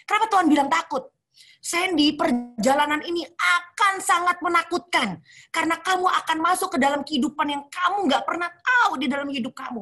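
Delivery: lightly voiced divine comfort; God warns Sandy the road is frightening, solemn; God's voice. God's voice speaking to her.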